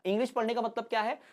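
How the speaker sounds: usual speaking voice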